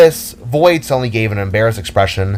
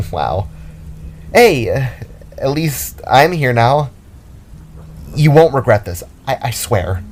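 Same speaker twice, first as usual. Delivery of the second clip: lightly voiced Jada, reassuring; 2 semitones higher than usual. A narrator's reading. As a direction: promise it brightly to a lonely friend. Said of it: "Jada assured".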